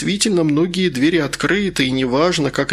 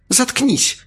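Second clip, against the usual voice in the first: higher, sharp hissed order; 11 semitones higher than usual. Acted. Margarita hissing at Malysh to shut up. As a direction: hiss at him to shut up. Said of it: "прошипела".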